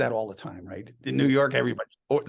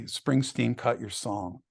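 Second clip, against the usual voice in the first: deadpan email read; 4 semitones lower, 3 dB quieter, slower than usual. Retold or imitated. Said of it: "so Mark writes to me".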